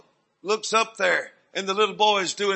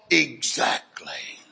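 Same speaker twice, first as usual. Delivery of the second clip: slow, low, whispered reply; hushed affirmation; 9 semitones lower, 3 dB quieter, much slower than usual. Retold or imitated. Preacher answering her plea for Jesus, slow whisper. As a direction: whisper it slowly with weight. Same reply repeated, breathed.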